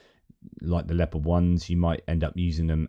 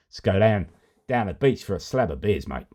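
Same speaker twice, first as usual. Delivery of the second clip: put-on Australian accent. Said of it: "those accents I get in trouble for".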